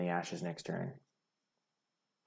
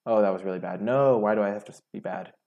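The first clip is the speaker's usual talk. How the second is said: frustrated outcry; 10 dB louder than usual. Real, not acted. Player kicking himself after revealing too much, loud frustrated outcry. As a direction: cry out loudly at your own blunder. Self-reproach after a misplay.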